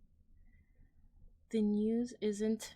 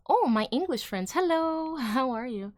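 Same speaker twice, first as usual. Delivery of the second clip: excited greeting; 4 semitones higher, 5 dB louder than usual. Real, not acted. Greeting chat viewers.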